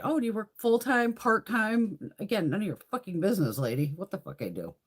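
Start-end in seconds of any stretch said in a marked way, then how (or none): 0.0-2.1 prim receptionist. Retold or imitated. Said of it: "why is the receptionist at".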